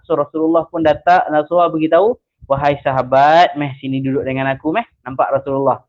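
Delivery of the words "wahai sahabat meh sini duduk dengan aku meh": gentle invitation. Retold or imitated. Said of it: "Dia tak marah, dia panggil orang tu".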